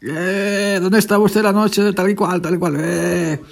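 lightly imitating a detective; a hint of Columbo questioning.

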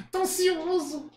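high puppet giggle, then slow squeaky words; Kleber. Acted. Puppet waiting for his song, giggly high puppet voice. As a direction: giggle as an eager dummy. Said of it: "acha uma voz que pareça com o boneco".

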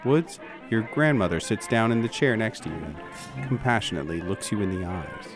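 ordinary delivery

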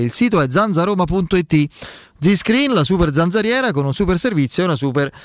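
upbeat radio ad read; infomercial. Acted. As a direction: pitch the sponsor like a radio host. Host reads live sponsor ads.

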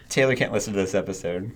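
ordinary talk

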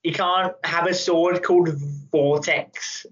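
rough attempt at a Kiwi accent; New Zealand accent. Director imitated turning down the actor's ideas, New Zealand accent. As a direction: put on shaky New Zealand vowels. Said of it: "trying to do a New Zealand accent".

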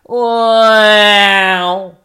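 loud, high honking mock of a coworker's voice; mock coworker voice, loud and high like a horn; train horn voice. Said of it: "sounds like a fucking train horn".

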